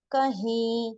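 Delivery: कहीं slowly, long nasal final vowel; noon ghunna ending. Shown as a demonstration. Urdu teacher reading examples for learners, nasal ending. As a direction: draw out the last vowel of कहीं through the nose. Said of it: "हैं आ रहा है ना".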